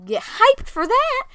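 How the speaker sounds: high, loud, drawn-out cheer; playful hype. Pretend. Hyping up listeners about game features.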